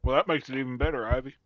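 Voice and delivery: talking with a mouthful of nuts; chewing while talking; mouth full. Real, not acted. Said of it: "Apologize for talking with my mouth full".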